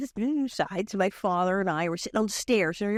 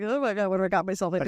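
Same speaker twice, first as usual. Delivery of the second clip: nervous panic; much faster than usual. Retold or imitated. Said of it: "I'm like".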